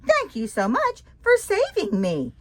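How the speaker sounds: very high, loud whoop of relief; jubilant yell. Acted. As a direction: whoop like a rescued frog. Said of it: "Fred hopped on the boat and yelled".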